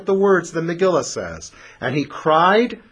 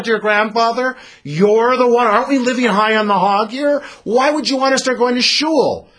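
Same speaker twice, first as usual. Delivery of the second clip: higher and louder, scolding in disbelief; mock outraged family; 7 semitones higher, 3 dB louder than usual. Family scolds Esau for taking the blessing, hammed-up higher, louder outrage. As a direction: play the family berating Esau as if he's lost his mind.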